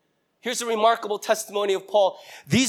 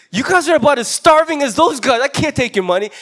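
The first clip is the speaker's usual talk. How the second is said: Paul refusing; 5 semitones higher, 5 dB louder than usual. Retold or imitated. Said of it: "And Paul's like".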